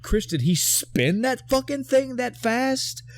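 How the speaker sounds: high-pitched, baffled questioning; incredulous. Real, not acted. Host questioning co-host about a fight move, incredulous.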